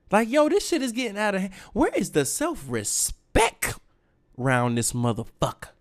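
high, exasperated rant. Real, not acted. Ranting in disbelief.

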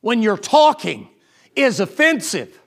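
slow, lightly voiced disapproving old lady; drawn-out reproach from a prim matron; prim scolding lady. Lady scolds the pastor for his vehemence, slowly. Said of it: "she said".

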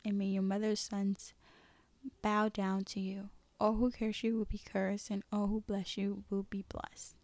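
steady, understated storytelling; story reading. A narrator's reading. Reading Isaac's blessing of Jacob to listeners, plain narration. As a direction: read scripture aloud in an even, measured voice. Reads Bible story aloud.

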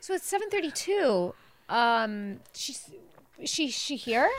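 soft, halting mock-casual question; playing it cool. Mom imitates son checking on late guest, playing it cool. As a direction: imitate a boy shyly fishing, quiet and hesitant. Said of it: "like, playing it cool".

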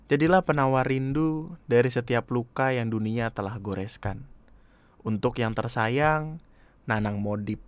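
measured, lyrical poem reading; poem recital. Acted. Reading own tender poem to a loved one, poetic recital.

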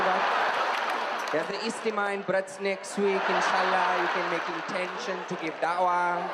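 lightly voiced persuasive preacher; a hint of a gentle recruiter; da'wah recruiter. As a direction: coax them to sign up. Acted da'wah recruiter pitch.

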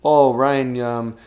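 loud, slow host announcing points; game show host. Retold or imitated. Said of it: "he'd be like".

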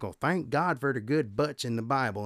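put-on old-time preacher with a Southern Florida accent; lightly put-on Southern Florida accent. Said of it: "he had this Southern Florida accent".

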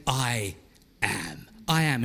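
low, hushed and solemn; God's voice. Acted. God declaring his name to Moses, low and hushed. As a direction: speak as God from the burning bush, low and still.

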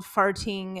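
Farting with a crisp, fully sounded T; emphasized T. Real, not acted. Announcing an embarrassing story title, the T in Farting emphasized. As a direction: hit the T in the middle of Farting. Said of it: "I like that you emphasize the T".

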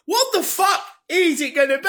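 high, eager near-shout; high shouted excitement; excited shout. Retold or imitated. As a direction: burst out dying to know. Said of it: "I'm so excited".

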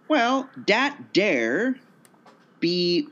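drawn-out, tentative Louisiana drawl; light stab at Louisiana dialect; attempted Louisiana accent. Shown as a demonstration. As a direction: try a slow Louisiana accent. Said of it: "Is this supposed to be a Louisiana".

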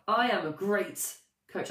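slow, loud, every word weighed in I am a great coach; convinced, deliberate. Shown as a demonstration. Coach convincing herself with a slow, loud I am a great coach. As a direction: say I am a great coach slowly and loudly, like you mean it. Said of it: "way more convincing".

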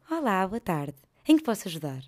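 pleasant, welcoming greeting; friendly clerk. Retold or imitated. Clerk warmly greeting a caller on phone. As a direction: greet kindly like a happy clerk. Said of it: "não é preciso estar feliz no seu trabalho".

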